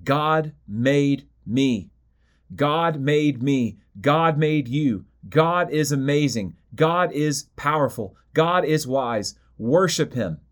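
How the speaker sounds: slow, weighty proclamation, each phrase set apart; voice of creation. Acted. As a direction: let creation itself speak, slow and solemn. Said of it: "And creation says".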